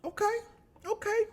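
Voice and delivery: high, reluctant okay; forced approval. Retold or imitated. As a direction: fake being impressed.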